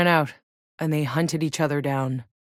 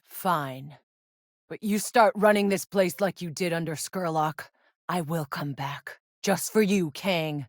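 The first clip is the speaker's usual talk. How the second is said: quiet threat; 6 dB quieter than usual. Acted. Threatening Kang before leaving.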